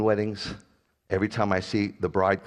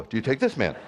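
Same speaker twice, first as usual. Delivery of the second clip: laughing mock officiant.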